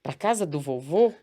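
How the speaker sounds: lightly voiced little girl, eager and surprised; a hint of a small child asking, eyes wide; little daughter amazed she's going to grandpa's house, mildly childlike; child's voice. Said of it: "Aquele jeito criança".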